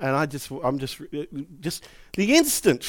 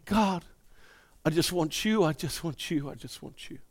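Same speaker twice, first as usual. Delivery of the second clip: softer and softer, trailing to nothing; tender prayer fading; 6 dB quieter than usual. Pretend. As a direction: breathe the prayer to a hush. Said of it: "began to say".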